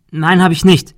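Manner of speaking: high, loud frightened protest; threatened girl cries out her denial, high and loud; scared denial. Acted. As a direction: plead your innocence in panic. Girl denies under threat.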